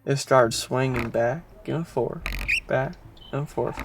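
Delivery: hushed, spooky telling; creepy storytelling voice. Shown as a demonstration. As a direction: draw them into the dread. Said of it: "I'm gonna put on my creepy voice now".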